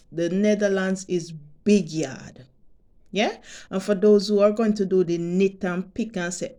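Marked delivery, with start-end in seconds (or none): 0.1-2.4 Jamaican way of saying it. Shown as a demonstration. To her subscribers, saying it the Jamaican way in a light Jamaican lilt. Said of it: "Let me say it like Jamaicans say it".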